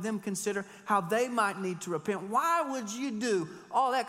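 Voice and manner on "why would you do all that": mock disbelief. Mocking rhetorical question.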